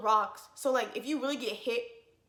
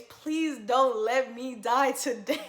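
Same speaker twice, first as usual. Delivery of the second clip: laughing mock prayer; slower than usual. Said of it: "all I'm saying is".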